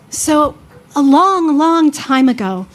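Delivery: slow storybook opening; storytelling. Acted. Beginning the tale for Mom, slow storyteller. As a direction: draw out the once-upon-a-time.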